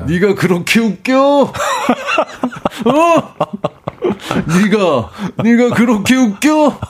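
high-pitched mock challenge; playful impression of a needling senior, breaking into laughter; 박명수. Older comedian confronting a junior on the way out, mock indignant. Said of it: "나갈 때 명수 형님 만나면".

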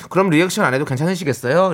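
earnest, polite asking in an everyday pitch; straight-faced courteous question; too serious. Shown as a demonstration. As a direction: ask the boss formally, with no cuteness. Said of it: "그건 너무 진지한데".

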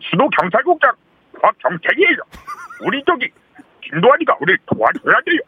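Yain Sidae police chief impression. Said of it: "야인시대 수도국장 들어볼게요".

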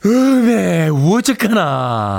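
slow, breath-led Chungcheong sigh; Chungcheong exclamation. Shown as a demonstration. DJ tries the dialect exclamation for the caller, slowly drawn out. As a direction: breathe in, then stretch out 어쩌까나. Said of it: "제가 한번 해볼 테니까".

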